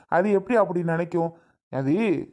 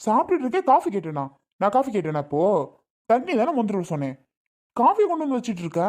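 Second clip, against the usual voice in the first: higher-pitched, exasperated telling-off; irritated scolding; 4 semitones higher than usual. Acted. Husband asked for water, got coffee, irritated scolding.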